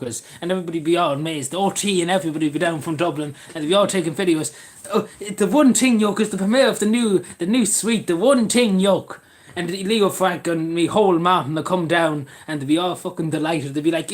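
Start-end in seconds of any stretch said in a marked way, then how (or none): 4.9-9.2 raised, louder mock announcement; mock amazement. Visitors from Dublin filming, mock amazement. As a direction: proclaim it like a grand premiere.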